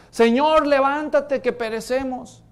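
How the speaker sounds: pleading loud cry for help; terrified disciples calling out; desperate cry. Acted. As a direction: cry out as if the boat is sinking.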